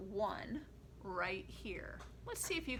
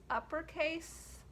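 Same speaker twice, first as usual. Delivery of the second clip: high voice for uppercase; 6 semitones higher, slower than usual. Shown as a demonstration. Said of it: "uppercase and lowercase chant".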